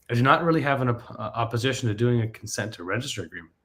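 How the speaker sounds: brisk radio announcer read. Acted. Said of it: "I'm gonna use my radio voice for this".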